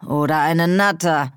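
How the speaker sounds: scoffing, half amused; mocking. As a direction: toss it off as a jibe. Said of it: "spöttelte der andere".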